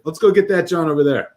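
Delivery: lively imitation of a local; mock Philly local. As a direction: lightly act out a casual slang user. Acting out casual Philly slang users.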